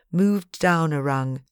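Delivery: usual speaking voice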